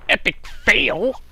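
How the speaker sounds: shouting. Acted. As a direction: drag it out like a jeer. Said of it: "I should be plugging my nose".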